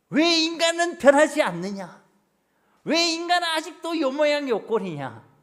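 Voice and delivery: loud, high-pitched exasperated rebuke; acted scolding. Acting out harshness toward others. (높고 큰 소리로 답답한 듯 호통치며)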